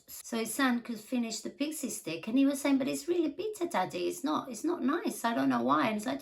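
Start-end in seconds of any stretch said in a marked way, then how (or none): 2.8-5.9 put-on higher kid voice, complaining; a light touch of a little boy whining; whiny son. Son insisting to daddy the candy is bitter, whiny.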